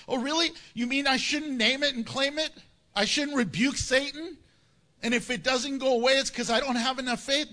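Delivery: feigned surprise, piling up questions; mock incredulity. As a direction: play the astonished doubter. Plays doubter questioning Paul.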